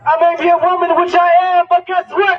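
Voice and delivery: rhythmic spoken-word poem; poem recitation. Acted. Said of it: "I wanna recite a poem".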